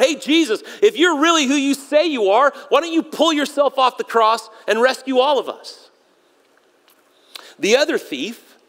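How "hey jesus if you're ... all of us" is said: higher-pitched mocking cry; jeering challenge, pitched up; sarcastic, angry taunt. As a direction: call it out as a mildly angry taunt. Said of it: "almost sarcastically, angrily crying out".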